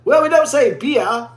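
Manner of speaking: put-on Australian "beer", ending "bee-ah"; mock Australian accent. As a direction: imitate an Australian correcting a word. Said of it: "this guy was like".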